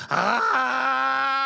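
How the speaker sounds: loud mock man's wail; Chewbacca-like wail. Preacher imitating an ugly crying man, mock loud wail. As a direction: bellow like a crying Wookiee. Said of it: "parece o Chewbacca".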